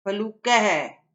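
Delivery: फलूक spelled out slowly, each syllable clear; slow model reading. Shown as a demonstration. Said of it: "तो आपको इनको बोलना है".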